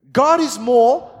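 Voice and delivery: drawn out, loud, rising; slow emphatic build. Real, not acted. Preacher restarting his point, slow and loud. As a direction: lean hard into it. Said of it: "pumped preacher".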